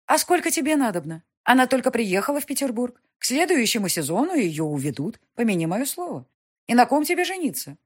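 властная графиня, громче и выше; мать поучает сына, с напором; напористая мать. Acted. Mother voiced. (властная мать, повышенным тоном)

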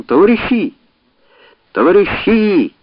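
high squeaky cry of comrades; mouse-voiced rallying cry; squeaky shout. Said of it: "мишачим голосом закричав".

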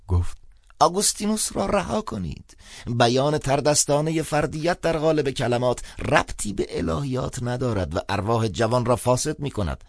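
put-on high, lofty old man advising; patronizing elder giving friendly advice; old priest advising the younger caller; old priest lecturing. A narrator's reading.

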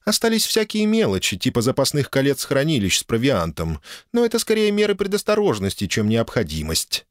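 crisp, businesslike woman's voice; a hint of a brisk dragoness. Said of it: "Тон драконицы сразу становится деловым".

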